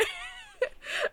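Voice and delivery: real squealing laugh mixed with crying; high tearful laugh. Real, not acted. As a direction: breaks into a teary laugh. Overcome while telling the story.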